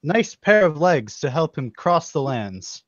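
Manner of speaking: lightly voiced proud king; hearty royal tone. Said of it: "He says".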